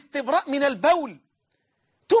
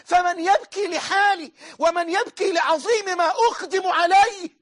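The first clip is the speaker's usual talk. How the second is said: rising preacher's cry; 5 semitones higher than usual. Acted. Dying man's climactic lament.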